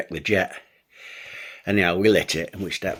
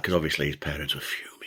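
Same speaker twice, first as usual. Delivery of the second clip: whisper; 5 semitones lower, 10 dB quieter, faster than usual. Real, not acted. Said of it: "unvoiced whisper".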